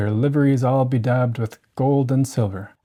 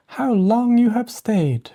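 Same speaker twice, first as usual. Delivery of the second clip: put-on higher, slow drowsy girl's voice; Cinderella feigning sleepiness; 10 semitones higher, slower than usual. A narrator's reading. Cinderella greets her sisters, mock sleepy higher voice. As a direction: pretend she just woke up. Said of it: "cried she".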